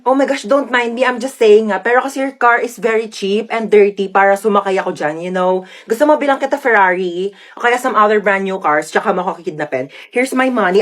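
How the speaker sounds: lightly voiced rich girl mixing English and Tagalog; a hint of haughty Taglish; spoiled conyo rich girl. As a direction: talk like a pampered socialite. Rich girl talking to kidnapper.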